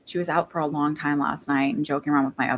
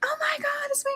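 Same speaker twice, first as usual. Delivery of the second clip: mock amazement; 3 dB quieter than usual. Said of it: "you don't go like".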